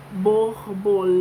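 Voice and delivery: "Borbolê" drawn out syllable by syllable; slow sounding out. Shown as a demonstration. Teacher sounding out the word slowly for children. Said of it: "você fala melhor".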